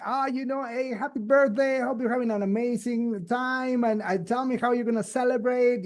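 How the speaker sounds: warm personal birthday greeting. Pretend. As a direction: sound like you truly mean it. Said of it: "And now you're saying".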